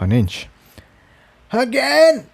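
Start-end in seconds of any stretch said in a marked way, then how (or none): 1.5-2.3 much higher, sharp push command; urging call. Acted. Incendia urging Tiptoe to flap again, a sharp call. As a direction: drive them on for one more heave. Urging team pushing door.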